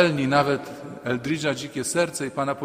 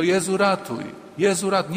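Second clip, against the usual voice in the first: higher, urgent cry of a sinking man; Peter's plea, pitched up and pressing; crying for help; 5 semitones higher than usual. Retold or imitated. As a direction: call out to be saved, higher. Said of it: "nie wstydził się krzyknąć".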